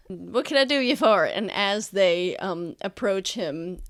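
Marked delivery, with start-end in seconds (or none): 0.1-1.2 muffled. Acted. Merchant's greeting heard muffled from the carriage. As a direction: repeat it as if heard through a wall. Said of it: "a little bit muffled".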